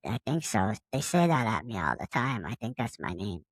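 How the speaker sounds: golden retriever answering the alien, low and dopey; dopey dog voice. Acted. Dog Winnie voiced in story.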